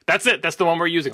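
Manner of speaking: brisk, satisfied sign-off on a take; imitating a director calling it done; decisive director. Director telling the crew the take is good, decisive.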